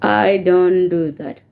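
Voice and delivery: slow, drawn-out refusal; firm refusal. Real, not acted. Vlogger repeats her refusal to those disrespecting her, firm and slow. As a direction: spell it out slowly, low-pitched.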